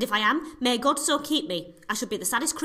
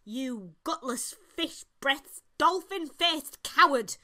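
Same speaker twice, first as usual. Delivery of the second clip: slow angry insult; 3 semitones higher, slower than usual. Acted. Joan insults the king.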